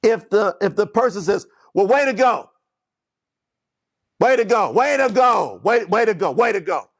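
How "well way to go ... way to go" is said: wrong inflection. Shown as a demonstration. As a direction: bark the praise so it stings. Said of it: "You see that inflection".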